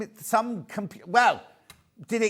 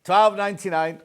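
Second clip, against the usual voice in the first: twelve ninety-nine called out louder, like a sales host's big reveal; emphatic price call; 3 semitones higher, 7 dB louder than usual. Shown as a demonstration. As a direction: land the price with a punchy announcer ring. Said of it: "And we are?".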